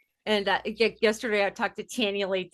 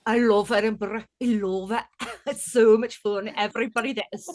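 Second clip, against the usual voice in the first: put-on drunken Edinburgh Irish accent. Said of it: "drunken Edinburgh Irish accent".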